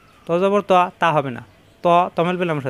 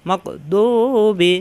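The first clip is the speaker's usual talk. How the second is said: slow model reading; much slower than usual. Shown as a demonstration. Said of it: "teacher models the word slowly".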